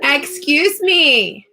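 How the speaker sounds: drawn-out stern mom warning; mean mommy voice. Real, not acted. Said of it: "That's my mean mommy voice".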